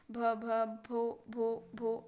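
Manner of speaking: halting, repeated first syllables; imitated stammer. Girl tries again to say her name, imitated stammer. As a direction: stutter on the start of a name. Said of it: "ऐसे।".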